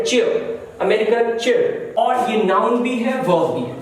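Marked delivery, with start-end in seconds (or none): 0.0-0.6 चेयर with no r, British style; British chair. Shown as a demonstration. Teacher showing British pronunciation. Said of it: "British लोग र का उच्चारण नहीं करेंगे". 0.8-1.9 चेयर with a clear r, slightly slow; American chair. Shown as a demonstration. Teacher showing American pronunciation. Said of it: "र का उच्चारण".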